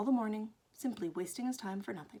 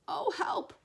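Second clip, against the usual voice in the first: higher, pleading call; distressed cry for help; 9 semitones higher than usual. Acted. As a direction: call out for help from a stuck place. Pooh stuck in the jar.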